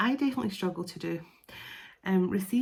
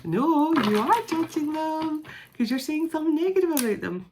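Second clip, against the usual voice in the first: emphatic retort; 8 semitones higher, 5 dB louder than usual. Acted. Retort to the mocked excuse.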